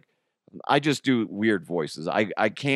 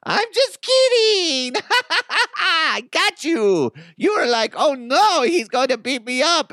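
very high, loud, laughing squeal; hammed-up shrieking cackle, way up high; switch to giddy joker; 6 dB louder than usual. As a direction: crow gleefully that it was a prank. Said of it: "I would just switch it into".

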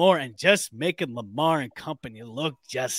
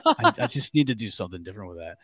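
laughing; 6 semitones lower, faster than usual. Retold or imitated. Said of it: "I'm like".

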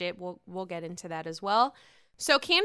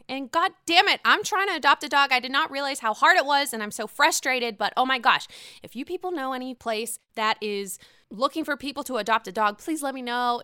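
louder, fast, exasperated venting; frustrated rant; 2 semitones higher, 4 dB louder than usual. Real, not acted. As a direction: vent your dog-adoption frustration in a rush. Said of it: "enough of my rant and my whiningness".

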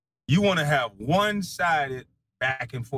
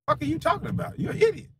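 angry shouting; 13 semitones higher, faster than usual. Real, not acted. Streamer yells at a critic who mocked his yard work, angry. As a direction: blow up at him, shouting.

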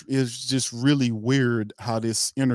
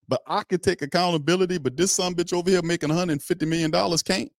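higher, faster, outraged; indignant; 6 semitones higher, faster than usual. Real, not acted. Host raging at the quarterback, higher and faster in outrage. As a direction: demand why he can't own it.

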